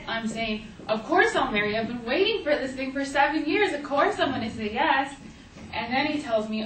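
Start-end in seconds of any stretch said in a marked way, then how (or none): 0.9-5.1 joyful acceptance. Retold or imitated. Accepting the proposal.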